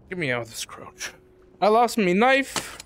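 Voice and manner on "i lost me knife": mock pirate accent. Pirate-like accent, then just kidding.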